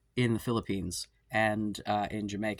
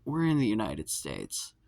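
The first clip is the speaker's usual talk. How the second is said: exasperated retort to customer; 4 semitones higher than usual. Retold or imitated. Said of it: "we're like".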